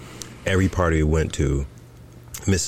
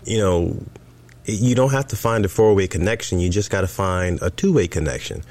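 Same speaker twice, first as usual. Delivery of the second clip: mimicking wife; 5 semitones higher than usual. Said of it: "So she's like".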